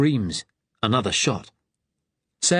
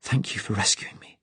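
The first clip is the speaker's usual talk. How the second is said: breathless; 4 dB quieter than usual. Acted. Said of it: "she said breathlessly".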